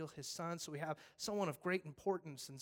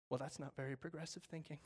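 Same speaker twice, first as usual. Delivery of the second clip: much softer, dismissive; smug; 7 dB quieter than usual. Acted. Congregation dismissing the firefighter, smug. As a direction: sniff at it. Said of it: "smug reply".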